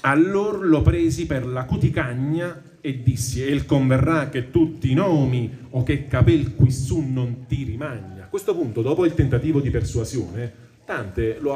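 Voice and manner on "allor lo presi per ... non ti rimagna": slow, measured reading of Dante's verse; poem recitation. Acted. Teacher reading the Inferno to the class, measured recitation. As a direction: recite the tercets with weight.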